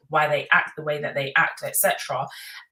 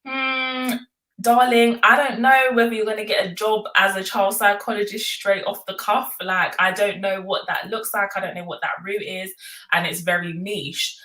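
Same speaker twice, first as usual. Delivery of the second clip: mum voice; 4 semitones higher, 3 dB louder than usual. Retold or imitated. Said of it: "And the mum was like".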